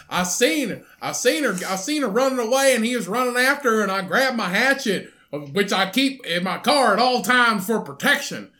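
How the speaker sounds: lightly voiced hillbilly hitchhiker; a hint of a backwoods drifter. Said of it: "he didn't sound like a hillbilly".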